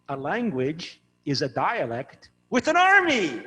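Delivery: slow, deliberate punchline delivery; deadpan setup for the laugh; joke punchline. Shown as a demonstration. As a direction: land the joke slowly and let it sit. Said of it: "Get ready to laugh".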